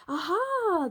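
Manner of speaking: high, loud mocking jeer. A narrator's reading. Robbers jeering as they ride away. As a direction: jeer at the law. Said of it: "they jeered".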